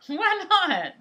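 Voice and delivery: laughing why not. Real, not acted. Teasing husband refuses singing.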